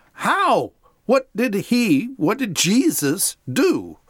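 high, exasperated questioning, slowing on the last line; frustrated demand. Acted. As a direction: press him impatiently for an answer. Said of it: "The Pharisees are obviously very frustrated".

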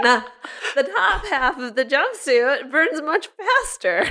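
talking through a laugh; slow, amused laughing words. Real, not acted. Joking about the burning jumpsuit.

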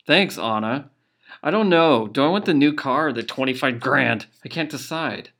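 hammed-up lottery winner glee; mock excitement. Gloating over the fake prize.

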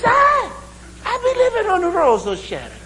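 shouted mock Irish brogue. Irishman repeating his street in delight, shouted mock Irish brogue. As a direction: shout it gleefully in a Jamaican-tinged Irish accent. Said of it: "my Irish brogue sounds a lot like Jamaican".

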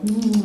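savouring food hum; nibbling "mm". Retold or imitated. Comic imitating her date nibbling, savouring hum. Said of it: "like he's nibbling on a French croissant".

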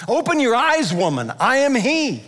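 a mild exasperated rebuke; frustration. Pretend. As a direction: urge her impatiently to see. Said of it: "Did he say it with frustration?".

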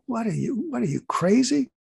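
high, disbelieving mock retort; incredulous. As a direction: pitch it up like he can't believe it. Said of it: "he looks at me like".

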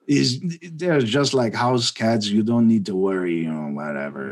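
imitating Gunther with a heavy German accent. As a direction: lean into a thick German accent. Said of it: "I gotta try to do the German accent".

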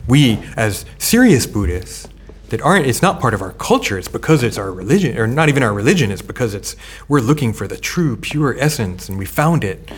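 lightly sarcastic, leaning on the big words. Real, not acted. Scholar mocking convert Buddhists' claim to true essence, sarcastic. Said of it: "I'm being sarcastic here".

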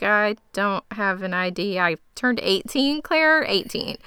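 indignant insistence. Retold or imitated. Eric correcting Claire about his age, rising indignantly. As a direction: insist on your age, voice climbing.

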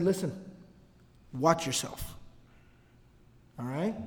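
low and quiet, menacing; a quiet final warning. Retold or imitated. Ansar warning Abdullah one last time, low and quiet.

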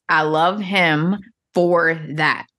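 spelled out slowly; slow exact quote; slow, deliberate quote. Shown as a demonstration. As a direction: linger on each word. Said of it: "Exact words".

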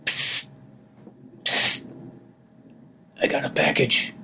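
whispering. Acted. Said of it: "Why are you whispering?".

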